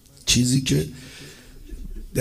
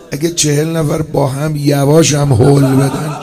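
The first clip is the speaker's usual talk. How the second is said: rising lament; 8 dB louder than usual. Real, not acted.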